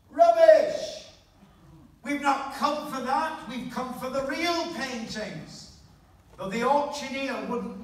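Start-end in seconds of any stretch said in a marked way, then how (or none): 0.1-5.8 outraged shout from the crowd, much louder and higher; angry shout. Retold or imitated. A bidder shouts at the auctioneer, loud and higher. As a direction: bellow it like an offended bidder. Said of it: "Somebody shouted out".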